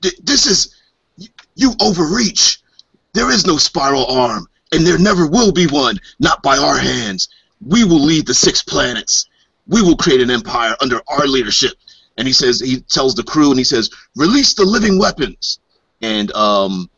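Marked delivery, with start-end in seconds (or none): 0.0-11.7 higher, raised defiance; defiant retort. Acted. Alien commander rejecting the Empire's envoys, higher and defiant. 14.2-15.6 high, raised order to attack; command. Acted. Alien commander ordering his crew to attack, high and raised.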